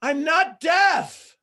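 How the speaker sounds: loud, high, very drawn-out protest; exasperated retort. Acted. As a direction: push back at being talked down to. Foreigner's retort to loud slow talk.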